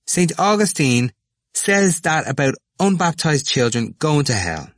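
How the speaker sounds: high-pitched, agitated questioning; heated arguing. A narrator's reading. Temple challenging Glynn on church teaching, agitated. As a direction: demand an answer, voice pitched right up.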